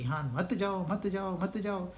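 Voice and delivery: soft, repeated warning to stay away; hushed, understated "don't go" refrain; murmured warning. Acted. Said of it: "बहुत लोग संसार से दूर भागते हैं".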